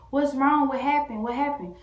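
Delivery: urgent mock yell, fired-off questions; retold yelling. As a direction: imitate an alarmed dad calling out. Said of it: "my dad just yelling".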